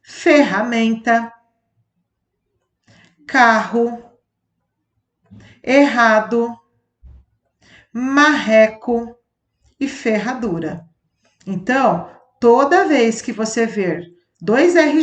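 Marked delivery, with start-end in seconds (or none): 0.0-10.9 each word read with a clear strong rr, with pauses between them; rr example list. Shown as a demonstration. Teacher reading example words to the class, clear and deliberate. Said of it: "Observe outros exemplos".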